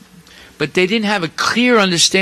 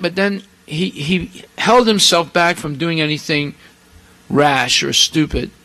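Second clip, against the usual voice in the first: usual speaking voice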